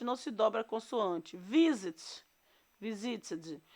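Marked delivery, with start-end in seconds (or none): 1.4-2.2 VISIT stressed on its first syllable, VI. Shown as a demonstration. Teacher shows students why the consonant isn't doubled, stressing VI in Visit. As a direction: say Visit with the weight on VI, the second syllable weaker. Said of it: "a sílaba anterior é mais forte".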